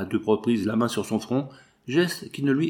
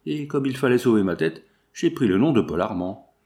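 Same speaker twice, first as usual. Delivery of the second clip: mild feverish exclaiming; 3 semitones higher than usual. Acted. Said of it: "s'écria-t-il".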